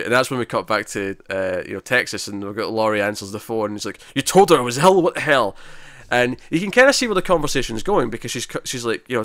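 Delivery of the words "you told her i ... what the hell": higher and louder, outraged accusation; mock-angry retelling, hammed up; angry demand. Kevin on the phone blasting Laurie for lying, angry.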